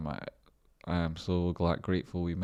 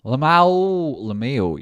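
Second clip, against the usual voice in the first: high shout of the word; loud amused shout at a chat joke; loud call-out; 7 semitones higher, 13 dB louder, much slower than usual. Real, not acted. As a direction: yell it out amused.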